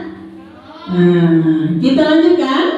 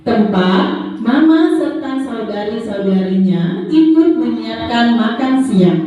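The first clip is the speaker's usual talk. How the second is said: put-on reading to a toddler; 3 semitones higher, slower than usual. Reads a story to the children.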